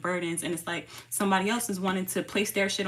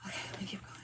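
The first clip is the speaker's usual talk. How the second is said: soft unvoiced whisper; 14 dB quieter, much faster than usual. Real, not acted. Baby nearby, resuming reading.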